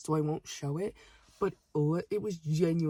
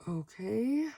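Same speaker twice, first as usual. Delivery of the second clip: higher, rising, doubtful agreement; reluctant okay; 4 semitones higher than usual. Retold or imitated. Cashier pressured for a photo, reluctantly agreeing. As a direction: give in as if asking a question.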